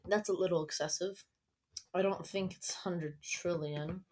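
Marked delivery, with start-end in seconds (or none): 1.9-4.0 quiet doubtful whisper. Real, not acted. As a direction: whisper it under your breath. Doubting aside.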